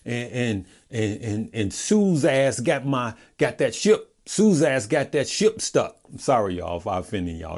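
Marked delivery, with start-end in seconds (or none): 0.0-6.0 lightly voiced friend, pitched up, slurring "Sue's ass"; telling viewers how a stock buddy moaned, light imitation; imitating a friend. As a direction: mimic a stock buddy's moaning, a touch higher. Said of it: "he said it just like this".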